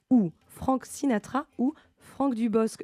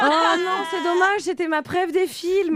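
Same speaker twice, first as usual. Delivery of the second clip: high, laughing through the words; 8 semitones higher, 4 dB louder than usual. Real, not acted. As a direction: laugh while admitting the slip. Gives away her own answer.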